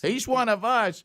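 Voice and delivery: high-pitched Southern hick voice; mock impressed voter. Host echoes co-host's mocking of voters, impressed high voice. Mocks voters won over by accent.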